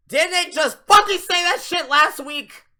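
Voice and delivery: high, loud outraged yell; outraged shout. Real, not acted. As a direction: blow up at the screen in disbelief. Ranting at WWE booking.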